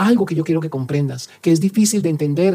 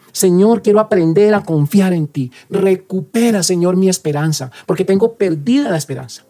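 spoken prayer. Acted. Priest leads a spoken prayer.

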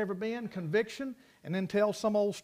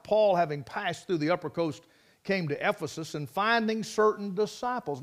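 preaching; 3 dB louder than usual. Acted. Preacher reading the verse to his congregation, measured and emphatic. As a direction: proclaim it from the pulpit.

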